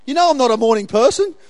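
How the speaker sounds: grumpy joke. Pretend. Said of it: "That's probably what he said".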